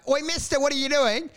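high, cheeky call across the street; a kid shouting at a stranger. Retold or imitated. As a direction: boys yelling at a man. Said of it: "we were like".

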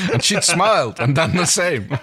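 reading through a laughing fit; laughing while reading. Real, not acted. Giggling co-host reads the silly fan fiction line aloud, laughing. Reader cracks up mid-sentence.

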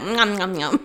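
playful imitation of munching; mimicking someone's noisy lip-licking; mock munching. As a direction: chomp out "nom nom" as a tease. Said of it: "you were just like".

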